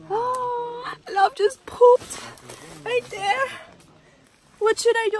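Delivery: high whimpering wail; panicked half-crying over the mess; whiny crying. Real, not acted. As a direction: wail it like near tears, high and loud. Pet poops in the tent.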